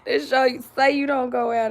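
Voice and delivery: laughing to tears; crying with laughter. Real, not acted. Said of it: "I had tears all in my eyes".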